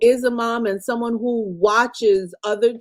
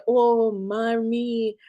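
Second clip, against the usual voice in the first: mock whiny child; slower than usual. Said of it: "you call me and say".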